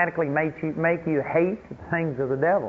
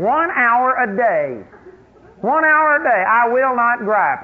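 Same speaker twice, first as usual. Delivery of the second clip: higher and louder, slow and firm; resolute declaration; 5 semitones higher, 4 dB louder than usual. Retold or imitated. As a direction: declare it like a vow, building. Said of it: "make a decision that".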